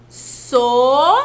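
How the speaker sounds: "Sonolenta" split into so-no-len-ta, each syllable separate. Shown as a demonstration. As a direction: break "Sonolenta" into its syllables for the class. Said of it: "Vamos pensar, ó".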